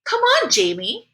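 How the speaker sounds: high, drawn-out exasperated anger; angry. A narrator's reading. Mom rebukes Jamie for his excuse, angry. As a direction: snap out of patience, stretching the words. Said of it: "said Mom angrily".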